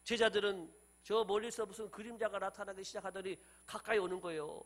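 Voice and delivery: ordinary talk, nothing marked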